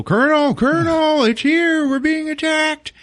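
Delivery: high, loud mock-panicked shout; calling up. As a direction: yell up to the commander in alarm. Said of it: "all of the men are calling up".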